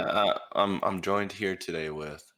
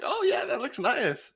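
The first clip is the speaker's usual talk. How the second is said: laughing; slower than usual. Retold or imitated. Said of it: "I'm like".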